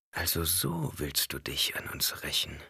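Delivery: low, hushed realization; whisper. A narrator's reading. Jessica whispers her realization to Alia, hushed. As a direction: breathe it with dread. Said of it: "flüsterte Jessica".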